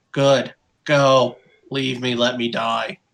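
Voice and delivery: grumbled, grumbling delivery. Voicing a character who refuses to leave with the others: grumbling. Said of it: "Richard grumbles".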